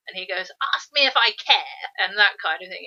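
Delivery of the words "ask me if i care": mock-acerbic retort, a bit higher and louder; lightly acted biting dismissal; acerbic narrator. Narrator answering the princess's objection, mildly acerbic. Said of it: "You get sort of acerbic".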